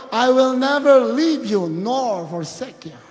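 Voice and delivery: loud, slowing proclamation; declaimed scripture. Real, not acted. Preacher quotes God's promise to congregation, solemn loud declamation. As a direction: stretch out each word of the promise.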